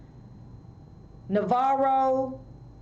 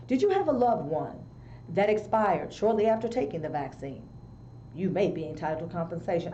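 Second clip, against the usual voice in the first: solemn TV legal ad voiceover; injury lawyer ad; 3 semitones lower, 3 dB quieter than usual. Retold or imitated. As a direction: read it like a late-night lawsuit commercial. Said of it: "a commercial ... goes a little something like this".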